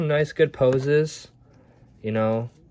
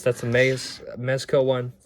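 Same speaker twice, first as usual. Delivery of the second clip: tripping over the name Mezco; real stumble and restart on Mezco; stuttering. Real, not acted. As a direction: break off at "Mez-", then restart the word. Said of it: "Sorry, I'm stuttering".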